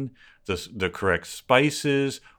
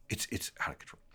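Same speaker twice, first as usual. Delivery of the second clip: near-whisper, much softer; whispered disbelief; 16 dB quieter, much faster than usual. Real, not acted. Winding down after a political outburst, hushed disbelief. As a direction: drop to a hushed, spent aside.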